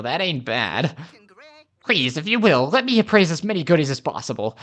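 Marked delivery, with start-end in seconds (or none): 1.8-4.6 lightly acted collector, lively and pleading; animated, excited request; eager treasure appraiser. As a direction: play a keen appraiser of goodies.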